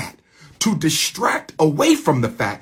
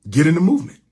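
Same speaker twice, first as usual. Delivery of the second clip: louder, rising call to join; rallying call; 3 semitones higher, 5 dB louder, much faster than usual. Real, not acted. Speaker urges Afro-Latinos to join, louder rallying call. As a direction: push it out harder as a rally cry.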